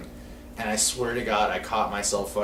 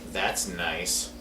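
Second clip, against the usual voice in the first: understated disgust, imitating a passerby; 3 semitones lower, 4 dB quieter than usual. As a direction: quote her quiet, withering disapproval. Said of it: "she was so disgusted by this".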